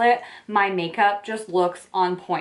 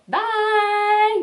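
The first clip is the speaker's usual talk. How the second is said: excited bye; 14 semitones higher than usual. Real, not acted. Cheerful sign-off to viewers.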